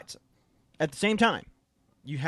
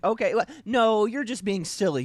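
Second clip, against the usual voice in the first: higher-pitched, naive brush-off; mock dismissive; 5 semitones higher, 4 dB louder than usual. Parodying someone answering a death threat, mock dismissive. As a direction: wave the threat away in mock reassurance.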